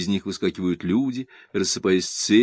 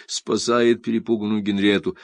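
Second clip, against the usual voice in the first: usual speaking voice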